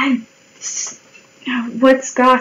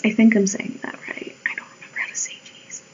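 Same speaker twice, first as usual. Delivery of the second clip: very quiet, half-whispered aside; self-doubting mutter; 9 dB quieter, faster than usual. Real, not acted. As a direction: mumble it doubtfully to yourself.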